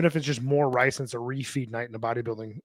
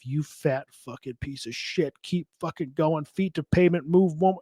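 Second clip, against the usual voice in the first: mock self-yelling; slower than usual. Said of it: "I'm fucking yelling at myself".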